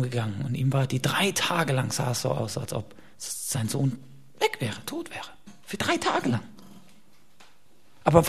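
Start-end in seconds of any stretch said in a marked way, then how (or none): 4.4-6.4 mournful. Acted. Dramatizing Abraham's grief.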